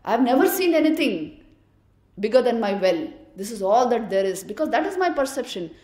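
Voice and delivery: loud, indignant outburst; angry frog. Acted. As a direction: shout him down as a liar. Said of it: "this frog got very angry".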